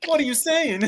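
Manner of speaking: high, stunned Miles voice, laughing at the edges; shocked Miles. Pretend. Teen hero, stunned by his mentor's words, high and incredulous. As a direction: gasp it out as a rattled teen hero.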